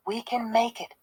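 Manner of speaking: quiet, under the breath; muttering. A narrator's reading. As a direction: mutter it to yourself. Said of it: "Jerry kept muttering".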